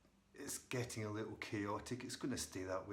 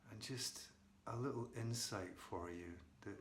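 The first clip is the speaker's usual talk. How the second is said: soft, unhurried meditation guide; quiet meditation lead-in with long pauses; guided meditation; 6 dB quieter than usual. Real, not acted. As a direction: ease them gently into the present moment. Leads into a meditation.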